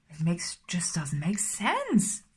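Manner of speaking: slow, hushed whisper of disbelief; slow whisper that trails off; whispered frustration. Real, not acted. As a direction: breathe it out slowly, nearly voiceless. Frustrated aside during a reading.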